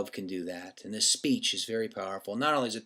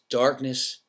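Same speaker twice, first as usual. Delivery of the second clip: slow, weighty recitation; reciting Doctor King's words slowly and gravely; solemn quotation; slower than usual. Shown as a demonstration. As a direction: let each line of the quote land slowly. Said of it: "and it is".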